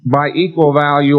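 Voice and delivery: equal given the main weight of the phrase; stress on equal. Shown as a demonstration. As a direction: punch the word equal. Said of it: "I emphasize the word equal".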